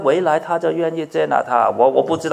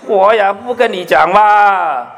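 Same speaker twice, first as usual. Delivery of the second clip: tit-for-tat reply; 4 semitones higher, 5 dB louder than usual. Retold or imitated. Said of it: "然后我又怎么样".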